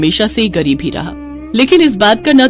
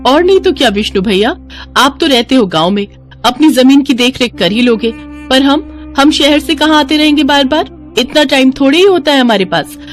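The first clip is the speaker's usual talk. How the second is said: lightly acted pushy, complaining woman; insistent greedy sister-in-law; 5 semitones higher than usual. Malti pressing Vishnu to divide the land, insistent. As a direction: argue impatiently, pitch climbing midway.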